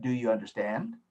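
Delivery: rising question lift on "understand?"; question tune. Shown as a demonstration. Professor showing the class how a question sounds, rising tune. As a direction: let "Do you understand?" climb at the end like a real question. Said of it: "Just listen".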